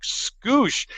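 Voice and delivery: very high-pitched questioning squeak; incredulous echo. Retold or imitated. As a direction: repeat the odd word in disbelief. Incredulous echo of technician's word.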